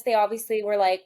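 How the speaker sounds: usual speaking voice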